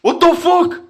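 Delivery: panicked screaming. Real, not acted. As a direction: scream for help, trapped. Trapped, calling for help.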